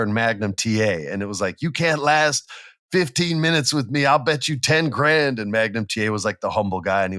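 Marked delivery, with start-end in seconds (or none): 1.6-5.4 brash mocking challenge, a little higher; cocky boast. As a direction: taunt him like a cocky champ. Flair boasting in retold match.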